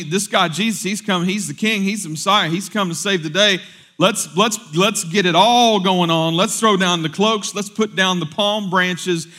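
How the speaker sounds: high, loud, eager acclaim; excited crowd. Retold or imitated. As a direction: voice an excited crowd rallying round its hero. Voicing the crowd hailing their Messiah.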